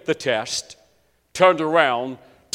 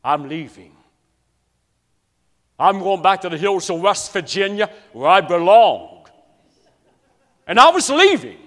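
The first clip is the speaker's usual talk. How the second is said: inner scream; 3 semitones higher, 6 dB louder than usual. Retold or imitated. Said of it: "in my heart I screamed".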